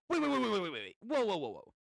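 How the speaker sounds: a startled rider realizing he's lost; Gyro yelps in alarm at losing his way; Gyro panicking. Acted. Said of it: "And then Gyro".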